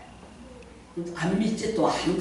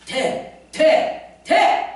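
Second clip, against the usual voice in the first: each 돼 climbs higher and louder; rising proclamation; 6 semitones higher, 4 dB louder, much slower than usual. Real, not acted. Pastor declaring to the congregation that the Spirit makes it work, rising joyfully. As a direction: build it up to a triumphant shout.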